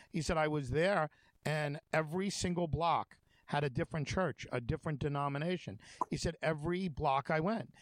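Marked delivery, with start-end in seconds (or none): 0.4-5.8 put-on broken English with a German accent. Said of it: "broken, you know, broken German accent". 6.4-7.7 put-on broken English with a German accent. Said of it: "broken German accent".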